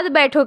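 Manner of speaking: بیٹھو said alone after the break; separate word. Shown as a demonstration. Teacher finishing the wrongly paused demo sentence. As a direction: let بیٹھو stand on its own after a pause. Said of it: "اور اس کے بعد".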